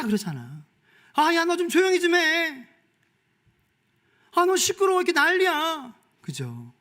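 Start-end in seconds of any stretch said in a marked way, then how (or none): 1.1-5.9 high, louder scolding to hush up; mock annoyed neighbor. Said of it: "주변에서".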